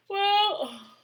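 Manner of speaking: high, slow drowsy drawl; sleepy cat. Acted. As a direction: murmur it half asleep. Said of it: "she murmured".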